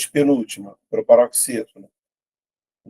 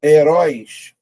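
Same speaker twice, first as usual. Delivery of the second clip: "Heróis" louder, RÓIS stretched; stressed last syllable; 2 semitones higher, 6 dB louder, much slower than usual. Shown as a demonstration. Teacher showing the last syllable is tonic, stress drawn out. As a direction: lean hard into RÓIS of "Heróis". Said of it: "última sílaba tônica".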